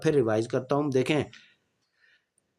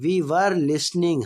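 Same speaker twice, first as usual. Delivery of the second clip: slow, clear dictation pace; slow classroom example sentence; slow example read; 2 semitones higher, much slower than usual. Shown as a demonstration. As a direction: spell it out slowly for students. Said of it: "teacher reading tense example".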